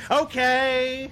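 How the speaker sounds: high, loud stretched hype yell; a hype rapper. Acted. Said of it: "your best hype-rapper impersonation".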